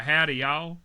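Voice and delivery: a light Southern accent on Howdy, y'all; hint of a Southern American accent. Shown as a demonstration. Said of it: "like, southern accent".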